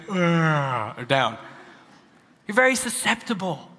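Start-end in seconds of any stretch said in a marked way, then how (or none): 0.1-1.0 mock groggy groan; waking-up groan. Preacher imitating someone just waking up, groggy groan. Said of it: "when they're just waking up".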